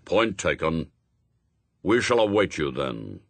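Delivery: low, mildly impatient official; a shade testy. A narrator's reading. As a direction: end the matter with restrained irritation. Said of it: "a shade testily".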